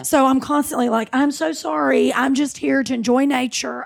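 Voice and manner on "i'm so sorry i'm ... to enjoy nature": high, sweetly apologetic appeal; mock-innocent pleading; apologetic plea. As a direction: beg pardon of a predator, pitched up. Pleading with sharks in retold scene.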